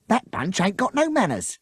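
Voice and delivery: fuming. A narrator's reading. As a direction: fume at the rude riders. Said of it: "she fumed".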